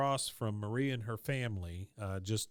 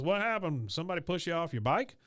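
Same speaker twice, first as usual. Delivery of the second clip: retold dad; 6 semitones higher, faster than usual. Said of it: "he goes".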